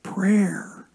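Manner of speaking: very slow, tender "Listen to my prayer"; slow tender plea. Shown as a demonstration. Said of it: "Verse one".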